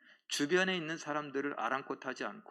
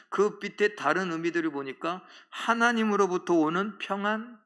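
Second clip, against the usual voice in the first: ordinary talk, nothing marked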